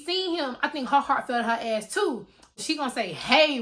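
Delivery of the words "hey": louder, falsely brave hey; aggressive greeting. Retold or imitated. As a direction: act like you aren't scared. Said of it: "real aggressive, trying to act like she ain't scared".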